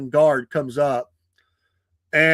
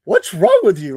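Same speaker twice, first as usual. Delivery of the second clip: higher and louder, imitating a friend shouting; alarmed shout; 5 semitones higher, 7 dB louder than usual. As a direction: friend yanks him back and shouts what's wrong, loud and alarmed. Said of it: "picks me up and says".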